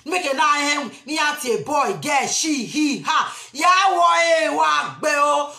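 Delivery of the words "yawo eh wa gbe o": loud shouted call. Real, not acted. Calling out Yawo to a friend far off, loud shout.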